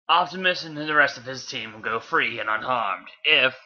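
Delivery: lightly voiced robot warlord; villain offering terms. Megatron offering Bee a bargain, lightly put-on villain voice.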